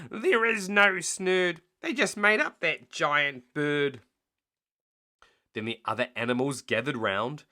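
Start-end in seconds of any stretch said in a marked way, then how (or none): 0.1-4.0 high, slow, louder complaint; grumble, cheated; complaining. Acted. Len to Hugh after the collapse, loud slow complaint. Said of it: "And Len complained".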